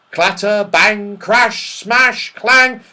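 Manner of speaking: high, loud, punched crash words; crashing tumble. A narrator's reading. Narrator telling of the fall down the ladder, dramatic. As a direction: hit each word like a clanging impact.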